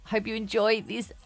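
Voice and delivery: measured, polished host narration; podcast intro read. Acted. Host introducing a poetic spiritual teacher to listeners, scripted intro read. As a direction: welcome listeners with a prepared introduction.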